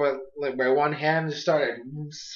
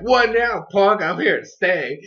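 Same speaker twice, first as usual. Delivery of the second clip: loud, higher-pitched gloating at the start; mock taunting; 3 semitones higher, 5 dB louder than usual. Pancham gloating at his rival, mock taunting. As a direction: act out a cocky jeer. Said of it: "laughing in his face".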